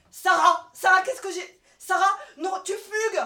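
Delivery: shouting after a runaway colleague; calling out. Acted. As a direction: call Sarah back as she walks off.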